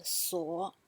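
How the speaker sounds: SUO dipping low, then lifting; low, soft "suo" with a bounce; bouncing third tone. Shown as a demonstration. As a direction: drop "suo" to the bottom and bring it up. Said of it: "has a similar voice".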